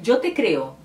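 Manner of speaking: "yo te creo" in a Spanish accent; Spanish example. Shown as a demonstration. Teacher giving viewers the correct Spanish, Spanish accent. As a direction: say it as a native Spanish speaker. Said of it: "Então, se".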